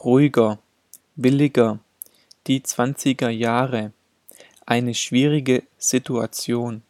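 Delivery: hard g in "Ruhiger", "billiger", "zwanziger", "schwierige"; g spoken as g. Shown as a demonstration. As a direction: keep a plosive g in "billiger", never the ch of ich. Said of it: "wird G gesprochen".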